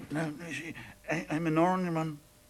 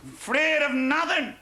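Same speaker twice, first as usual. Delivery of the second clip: higher, louder swaggering brag; drunken boast; 6 semitones higher, 4 dB louder than usual. Acted. Drunk husband bragging on the stairs, loud and swaggering. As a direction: puff yourself up, drunk and defiant.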